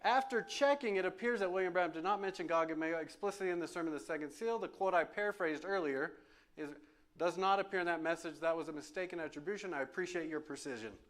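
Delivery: mock polite machine reply, quick; chatbot voice. Preacher mimicking how the chatbot answers, lightly mock polite. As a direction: read it like a smug assistant. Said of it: "This is how it talks".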